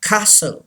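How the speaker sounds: "castle" said as kah-sul; silent T. Shown as a demonstration. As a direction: drop the T in "castle". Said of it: "टी is silent". ("castle" में टी silent, "कासल")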